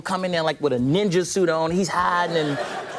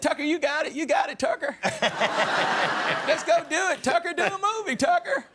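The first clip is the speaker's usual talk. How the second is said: imitating Glenn; 7 semitones higher than usual. Glenn voiced.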